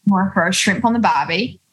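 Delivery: light put-on Aussie accent; attempted Australian accent. Shown as a demonstration. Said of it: "and I say".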